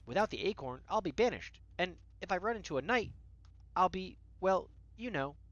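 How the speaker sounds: mock worry, trailing into hesitation; frantic gnome. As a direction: play a fretting gnome, lightly hammed-up. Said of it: "getting more and more frantic".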